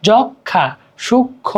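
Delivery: যক্ষা and সূক্ষ্ম ending on nasal vowels; light nasal pull. Shown as a demonstration. Teacher repeating the examples, lightly nasal যক্ষা, সূক্ষ্ম. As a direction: send the endings of যক্ষা, সূক্ষ্ম through the nose. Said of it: "নাকে একটা হালকা টান দিচ্ছে".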